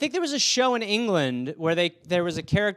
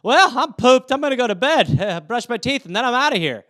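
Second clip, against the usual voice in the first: a hint of a pooped husband, a bit louder; lightly voiced satisfied husband heading to bed; husband after sex; 4 semitones higher, 4 dB louder than usual. Husband announcing he's done and going to bed. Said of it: "the guy's sitting there like".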